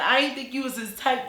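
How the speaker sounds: lightly put-on voice, somewhat high; milder brother imitation. Brother remarking on her looks, lightly imitated. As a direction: repeat the brother with the squeal toned down. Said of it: "he ain't talking like that".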